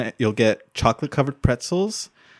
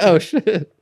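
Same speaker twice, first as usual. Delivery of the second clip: mock shocked; 8 semitones higher than usual. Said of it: "So I was like".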